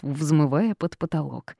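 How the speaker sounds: ordinary delivery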